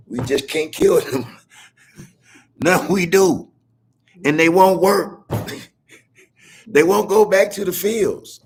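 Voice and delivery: mocking the powerful. Mocks the men with cigars.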